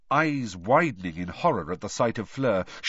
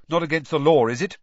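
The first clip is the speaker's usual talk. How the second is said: defiant retort; 6 semitones higher, 8 dB louder, faster than usual. A narrator's reading. Ron defies Snape.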